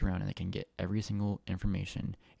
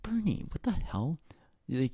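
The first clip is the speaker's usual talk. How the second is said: whispered, pitched-up disbelief; inner-voice whisper; 7 semitones higher than usual. Retold or imitated. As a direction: whisper it like a thought in your head. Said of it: "uh, in my head".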